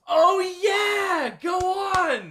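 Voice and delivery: loud high cheer; hyped. Real, not acted. Cheering co-host on to tell the story. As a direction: egg him on loudly. Hyping co-host's Seattle story.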